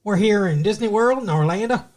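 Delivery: weird Florida accent, almost bayou. Shown as a demonstration. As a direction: try out a Florida Southern voice. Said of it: "Florida's got a weird, almost like a, a bayou kinda accent".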